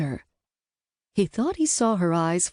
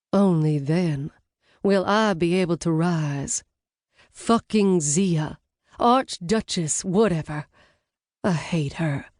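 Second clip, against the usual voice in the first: put-on Southern accent dropped, plain commanding voice; accent slipped. Brunette giving Blaze orders, Southern accent slipped. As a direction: let the belle accent fall away. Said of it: "her accent had slipped".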